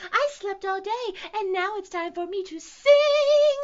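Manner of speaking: very high, loud squeaky bird; piercing little bird voice; Beebe bird. A narrator's reading. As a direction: squeal it like a tiny defiant bird. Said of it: "said the Beebe Bird".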